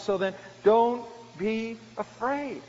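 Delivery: slow, DONT leaned on and drawn out; kind reassurance. Acted. Joseph repeating comfort to his brothers, slow and firm. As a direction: press the comfort home, unhurried. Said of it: "he reassured them and spoke kindly to them".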